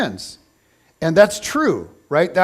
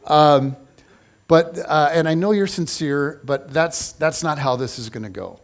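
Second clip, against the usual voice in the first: gentle letdown; 4 semitones lower than usual. Retold or imitated. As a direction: let him down easy, tapering off. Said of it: "And Jesus is like".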